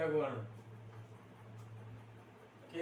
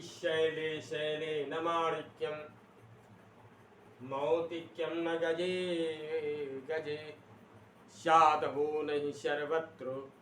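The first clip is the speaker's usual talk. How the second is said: slow shloka recital with a pause after "सर्वत्र"; much slower than usual. Shown as a demonstration. Teacher showing students where the yati falls, slow recital with a pause. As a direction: chant slowly, then halt a moment on "सर्वत्र". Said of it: "अब सर्वत्र में हम एक क्षण के लिए रुके".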